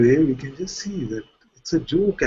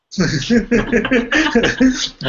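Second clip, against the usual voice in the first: high burst of laughter; amused laugh; real laugh; 10 semitones higher, 4 dB louder than usual. Real, not acted. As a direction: laugh at the absurdity. Laughs at own joke.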